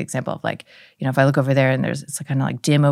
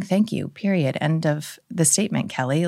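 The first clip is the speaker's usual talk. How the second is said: firm self-coaching. Shown as a demonstration. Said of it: "just saying".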